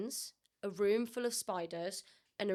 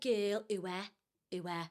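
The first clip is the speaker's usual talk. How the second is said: imitated Scouse friends; lightly mimicked Liverpudlian; Liverpool accent; 3 semitones lower, 4 dB quieter, slower than usual. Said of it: "I got friends up there".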